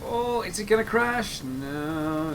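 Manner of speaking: tense, breath held; holding breath. Real, not acted. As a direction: speak while holding your breath. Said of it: "I'm holding my breath here".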